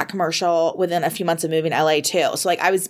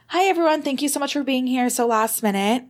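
higher, bright announcement ending in a laughing lift; quoting the editor; 4 semitones higher than usual. Retold or imitated. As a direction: announce the finalists with rising delight. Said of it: "M J literally starts the call with".

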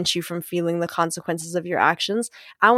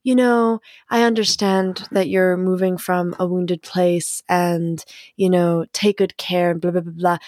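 mock gentle. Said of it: "I don't need to make it into a".

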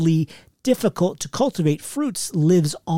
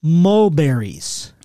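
very slow, drawn-out list reveal; slow dramatic reveal; much slower than usual. Acted. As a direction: stretch out each word for suspense. Reading the list out.

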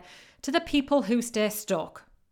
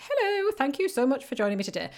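stiff, quick put-on proper English accent; mock proper English; 3 semitones higher, 3 dB quieter, faster than usual. Coach mocking their very first live stream, stiff proper English. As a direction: imitate your stiff first attempt at proper English, a little softer. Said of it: "I was trying to speak proper English".

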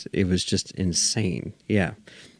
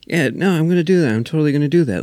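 mock Lucas; 9 semitones higher, 4 dB louder, faster than usual. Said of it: "he was like".

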